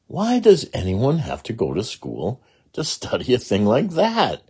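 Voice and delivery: put-on young girl puzzled. Ramona's questioning child voice.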